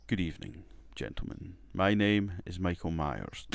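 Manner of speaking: put-on poor accent. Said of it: "that was a poor accent I put on".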